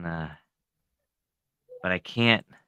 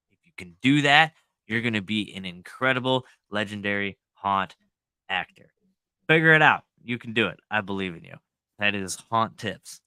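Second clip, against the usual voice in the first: wrestling promo; 2 semitones lower than usual. Acted. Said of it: "That's how you cut a promo".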